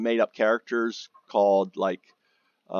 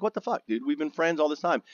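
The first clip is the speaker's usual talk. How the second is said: put-on high indignant protest to an old friend; hurt disbelief; 6 semitones higher than usual. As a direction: plead high, stung and baffled. Friend won't talk to him.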